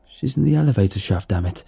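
exasperated repeat. Acted. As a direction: say it straight through, fed up.

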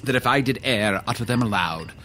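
portentous wizard. Acted. Wizard warning of powerful secret names, portentous. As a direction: intone it like a solemn mystic.

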